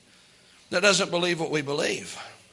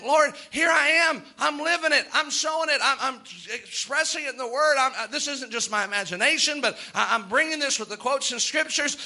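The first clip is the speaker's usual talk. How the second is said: frustrated plea; 5 semitones higher than usual. Retold or imitated. Minister crying out to the Lord, high and exasperated. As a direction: plead like a worn-out preacher whose people won't change.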